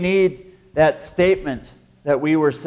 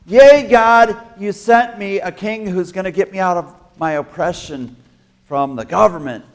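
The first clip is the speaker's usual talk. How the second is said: excited crowd; 4 semitones higher, 6 dB louder than usual. Acted. Crowd member thanks God.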